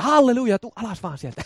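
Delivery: casual, hushed answer to the shouter; acted passer-by's reply. Someone calling the shouter down from the pole, softly. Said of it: "Niin kohta tulee joku ja".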